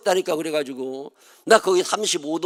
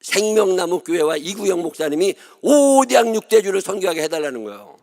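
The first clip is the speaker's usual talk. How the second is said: imitating his prayer; 2 semitones higher, 4 dB louder than usual. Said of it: "뭐라고 기도하느냐면".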